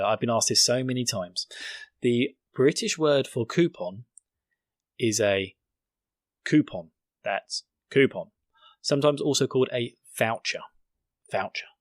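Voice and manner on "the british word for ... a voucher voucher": mock lesson. Shown as a demonstration. Mock lesson answering a repeated question.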